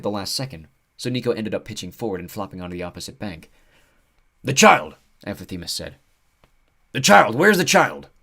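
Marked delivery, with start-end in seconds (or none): 4.4-5.0 high loud frantic cry. Acted. Centaur frantic about child. 6.9-8.1 high loud frantic cry. Acted. Centaur frantic about child.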